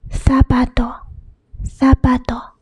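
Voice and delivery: zapato said as "thapato"; Spain's zapato, Z as TH. Shown as a demonstration. Teacher showing how Spain says it, TH in zapato. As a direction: start zapato with a TH sound. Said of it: "it's pronounced as".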